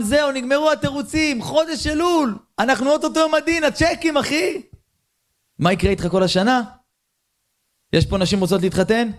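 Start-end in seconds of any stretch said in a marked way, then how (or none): 0.0-4.6 higher, slow firm announcement; lightly voiced stern God. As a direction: declare the excuses are over. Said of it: "אומר בורא עולם".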